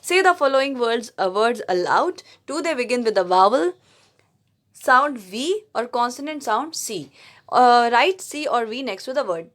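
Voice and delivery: slow, careful English read-aloud; textbook reading. Acted. Teacher reads the grammar book to her class, slow. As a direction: read the rule out word by word. Reads exercise instructions slowly.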